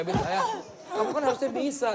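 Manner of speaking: put-on high whiny child's voice; imitating crying daughter. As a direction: play the sobbing little girl complaining. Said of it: "Miskanya nangis".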